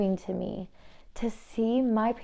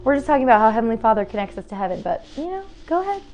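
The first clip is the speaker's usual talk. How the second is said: sarcastic; 3 semitones higher, 3 dB louder, faster than usual. Real, not acted. Talking to the loud crane outside, sarcastic. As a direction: rattle it off sarcastically, then sweetly wave it on.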